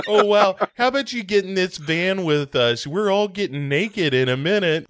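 high, loud, over-eager come-on; mock creepy invitation. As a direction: lure her into the van too cheerfully.

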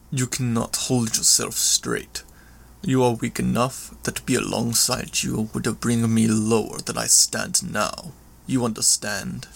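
lightly voiced villain passing judgment; understated contempt, deliberate and halting; a hint of a proud brute looking down; scornful villain. Villain scorns the wounded narrator.

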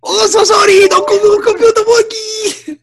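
hammed-up wailing in mock Asian accent; over-the-top fake crying in mock Asian accent. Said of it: "horrible Oriental accent".

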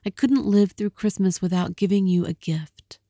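pleading Della. Acted. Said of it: "she cried".

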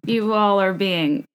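slow, drawn-out imitation of a reality star; Thomas Ravenel impression. Reality star scolding everyone at a dinner party, slow mock pronouncement. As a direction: lightly imitate him, stretching out each word. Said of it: "He was like".

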